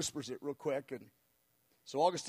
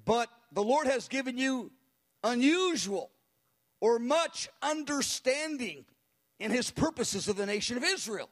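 much higher, fiery prophetic declaration; zealous prayer; 5 semitones higher, 3 dB louder than usual. Retold or imitated. Tiny elderly woman prophesying into the microphone with zeal. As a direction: proclaim it with fire. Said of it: "she had a voice".

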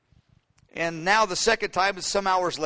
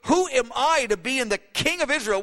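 amazed humility; 6 semitones higher than usual. Acted. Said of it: "this is amazing".

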